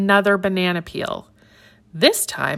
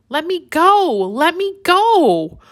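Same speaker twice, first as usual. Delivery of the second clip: much higher, louder monkey cry, slowing on the second; playful shout; 11 semitones higher, 4 dB louder than usual. Acted. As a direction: squeal it out, wriggling to get free. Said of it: "shouts Baba".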